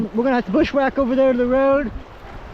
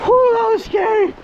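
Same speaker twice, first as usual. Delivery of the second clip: relieved; 13 semitones higher, 6 dB louder than usual. Real, not acted. Relief after scary rapid.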